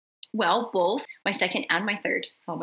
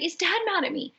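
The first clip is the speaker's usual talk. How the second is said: higher, small anxious voice, mimicking a daughter; 10 semitones higher than usual. Mother imitating her anxious daughter, higher and small. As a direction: ask it like a worried kid would. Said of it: "And she's like".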